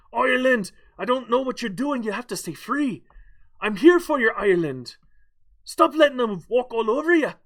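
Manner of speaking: high-pitched mock telling-off; mock scolding. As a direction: scold them loudly in hammed-up frustration. Mock scolding Ireland to stand up.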